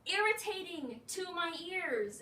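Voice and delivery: irritated rising outburst; exasperated outburst. Retold or imitated. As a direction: tell her off, fed up. Annoyed retort to girl.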